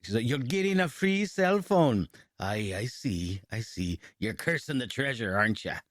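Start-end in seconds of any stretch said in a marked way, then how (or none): 0.3-2.1 much higher, slow insistent saleswoman; mock sales pitch. Imitating the saleswoman insisting, much higher and slow. 2.4-5.8 pirate. Pretend. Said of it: "so I was doing it as a pirate".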